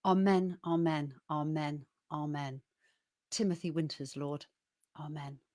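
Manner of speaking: solemn repeated amens, fading away at the close; poem recital. Acted. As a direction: end the poem like a prayer, dying down. Reads a poem aloud.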